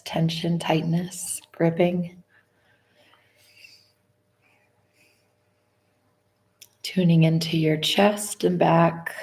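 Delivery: slow body-scan guidance with long pauses; guided meditation. Acted. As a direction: lead them unhurriedly through the body, phrase by phrase.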